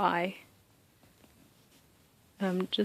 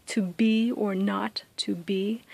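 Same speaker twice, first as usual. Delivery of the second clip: "To be or not to be" whispered slowly, each "be" stressed; iambic stress; slower than usual. Shown as a demonstration. Teacher showing students the iambic meter, slow whispered da-DUM beat. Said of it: "you can hear that da-da".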